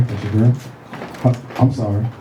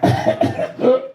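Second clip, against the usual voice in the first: imitated snore choking. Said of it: "Then it just was like".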